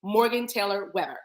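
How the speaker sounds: lightly imitating a careful, proper speaker; imitated way of talking. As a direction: mimic her composed, articulated speech. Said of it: "why you sound like this to me".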